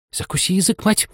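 high, peevish retort; snapping back. A narrator's reading. Young crab answering her mother, snappishly. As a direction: snap back as a cheeky daughter. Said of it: "огрызнулась та".

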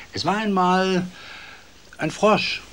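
high, hushed storyteller reveal; secret reveal. A narrator's reading. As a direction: let the frog drop like a secret. Geheimnisvoll verkündeter Held. (geheimnisvoll geflüsterter Märchenbeginn)

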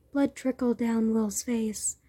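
ordinary delivery

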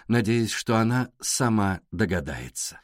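ordinary delivery

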